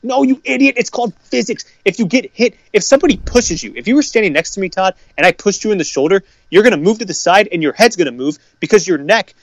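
high-pitched exasperated telling-off; exasperated rant. Real, not acted. Ranting at fans.

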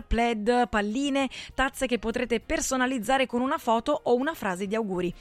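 upbeat radio commercial voice; ad read. Acted. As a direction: sell it like a radio spot. Radio ad for printing.

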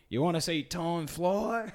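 slow, sly mock tough-guy line; imitating Snake. Retelling Snake tossing a fob watch, slow mock menace. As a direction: drawl it out like a shirtless creep. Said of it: "And he's like".

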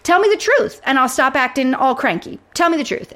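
retold angry outburst. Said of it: "She's like".

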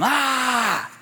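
sudden high startled scream. Retold or imitated. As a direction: blurt out one sharp, loud, high yell. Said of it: "Norman just screamed at him".

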